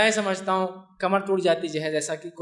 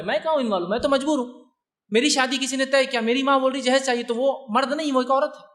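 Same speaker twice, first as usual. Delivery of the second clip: higher, pleading voice of a cornered groom; helpless groom; 5 semitones higher than usual. Retold or imitated. Preacher voicing a groom who blames his mother, pleading higher. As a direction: plead like a son with no say.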